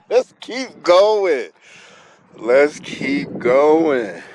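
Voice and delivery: slow, stretched-out mock encouragement; slow drawn out. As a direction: drag each word out slowly. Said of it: "I'd be like".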